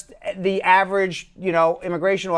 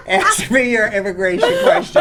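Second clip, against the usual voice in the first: ad announcer; 2 semitones higher than usual. Pretend. Mock ad announcer intro.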